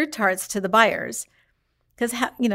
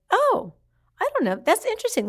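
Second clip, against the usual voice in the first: mock surprise; 13 semitones higher than usual. Frida answers buyer, not saying no.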